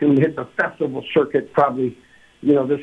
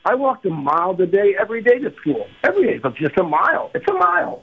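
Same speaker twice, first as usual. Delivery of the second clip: higher, ranting get-off-my-lawn voice; grumpy old-timer rant; 5 semitones higher than usual. Retold or imitated. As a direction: gripe like a cranky oldtimer. Old-timer rant, high pitch.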